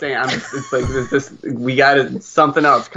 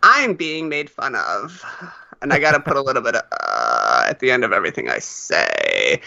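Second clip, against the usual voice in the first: mock woman voice; 5 semitones lower than usual. Shown as a demonstration. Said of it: "that is the universal voice I use".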